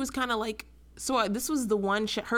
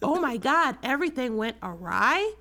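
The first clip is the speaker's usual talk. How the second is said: hammed-up first-grader reading aloud; mock dramatic reading; 4 semitones higher than usual. Mocking an audiobook narrator to a co-host, clumsily overdramatic. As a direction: imitate a narrator trying too hard, with misplaced inflections. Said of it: "like he's trying to be dramatic, like a first grader reading it".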